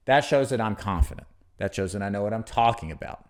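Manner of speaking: sure, settled fall at each sentence end; downward confident inflection. Shown as a demonstration. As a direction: end "confident" and "talking about" on a falling tone. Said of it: "that kind of inflection down".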